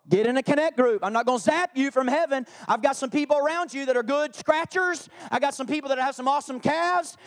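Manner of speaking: lightly voiced God, firm and insistent; voicing God. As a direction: lay down the law as God. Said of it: "God says".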